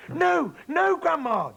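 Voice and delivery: very high, loud alarmed cry; snatch the cup away in panic; cried out. Acted. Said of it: "George cried out".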